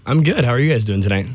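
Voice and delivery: big stage emcee greeting; radio host voice. Real, not acted. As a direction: boom it out like a radio announcer. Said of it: "sounded like an A M radio voice".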